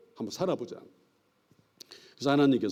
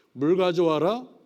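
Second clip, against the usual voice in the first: mock command; 4 semitones higher, 4 dB louder, slower than usual. Acting out confused languages.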